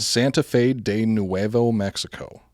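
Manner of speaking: slow Spanish accent pronunciation. Shown as a demonstration. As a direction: Santa Fe de Nuevo Mexico in Spanish accent. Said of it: "how good my Spanish accent is".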